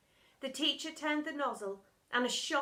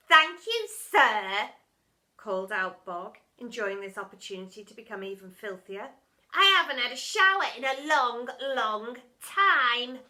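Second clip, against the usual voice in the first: put-on delighted boy; 9 dB louder than usual. A narrator's reading. Boy thanking the teacher, thrilled. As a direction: gush with joy.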